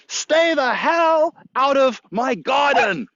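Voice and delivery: hammed-up angry warning to monkeys; mock yell. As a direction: order the monkeys off, slowly. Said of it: "Like that".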